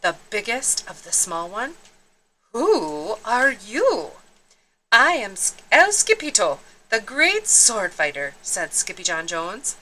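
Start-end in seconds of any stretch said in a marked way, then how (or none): 2.5-4.1 slow, demanding question; lightly voiced tough boss; suspicious gang leader. Don Diego questions the stranger. 4.9-8.4 puffed-up hero announcement; mock heroic swagger; proud introduction. Kitten proudly introduces himself.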